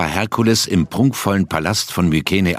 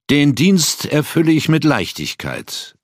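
put-on bold young hero, pitched higher; fearless; 8 semitones higher than usual. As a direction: brush off the task, unafraid. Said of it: "erwiderte Herkules unerschrocken".

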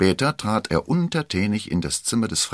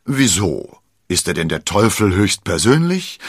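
amused; 4 dB louder than usual. Acted. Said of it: "schien ehrlich belustigt zu sein".

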